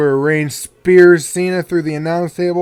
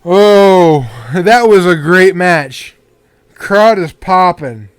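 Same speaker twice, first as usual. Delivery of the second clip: excited; 5 dB louder, slower than usual. Real, not acted. Reacting to the match ending.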